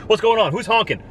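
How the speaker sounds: squeaky busybody voices, hammed up; imitating gawking bystanders. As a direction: ham up the rubberneckers turning to look. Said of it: "so everyone else looks".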